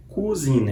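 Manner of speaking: cousine with the French U sound, lips rounded; French vowel in cousine. Shown as a demonstration. Teacher models cousine for students, careful French U. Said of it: "é um som de U, não um som de U".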